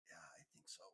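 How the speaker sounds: very soft, low reply; groggy patient. Acted. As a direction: barely answer as you come round. Revived patient coming round, groggy.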